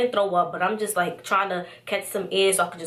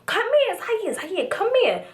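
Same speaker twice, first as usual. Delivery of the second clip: high mock wail; imitated crying; 13 semitones higher, slower than usual. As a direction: imitate a drunk friend wailing for him. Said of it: "she's, like, crying".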